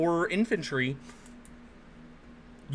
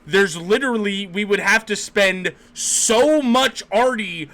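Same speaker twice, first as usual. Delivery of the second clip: exasperated disbelief; 4 dB louder than usual. Acted. Acts out stunned enemy reaction.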